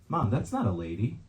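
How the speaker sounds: imitated child calling out, swooping pitch, no real volume; a kid's protest to mom, played lightly; mild mock yell. Five-year-old telling mom at pride parade, restrained mock yell. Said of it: "and she yelled".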